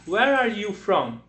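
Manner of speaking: slowed, clear question to pupils; teacher asking the class slowly. Shown as a demonstration. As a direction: ask it slowly and invite answers. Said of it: "Eu vou perguntar".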